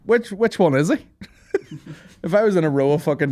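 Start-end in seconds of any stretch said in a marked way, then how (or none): 0.0-1.1 high, loud mock puzzlement; pitched-up questioning with amusement; imagined onlooker. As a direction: act out someone searching a crowd. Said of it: "you'd be like".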